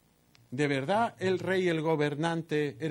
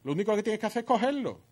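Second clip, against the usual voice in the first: goading; 6 semitones higher than usual. Acted. Preacher voicing Jezabel's goading.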